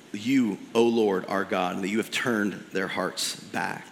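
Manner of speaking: prayer reading. Acted. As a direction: pray it humbly, asking the Lord. Reads Elijah's prayer from scripture.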